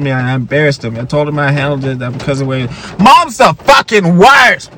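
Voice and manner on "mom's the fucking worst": drawn-out shouted taunt, higher; hammed-up gamer kid yelling at his friend; slow angry shout of a kid raging at a video game; mock kid yell. Kids yelling at game, acted.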